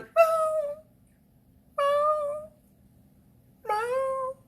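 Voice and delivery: very high, long plaintive wail; imitated crying cat. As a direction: mewl like a distressed cat.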